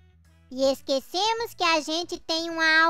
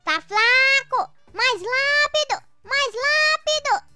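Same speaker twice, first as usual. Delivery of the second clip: drill sergeant; 5 semitones higher than usual. Acted. Pushing Cascão through exercise.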